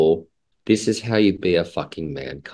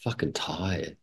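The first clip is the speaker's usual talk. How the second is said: imitating tired sigh; 4 semitones lower, 16 dB quieter than usual. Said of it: "He says".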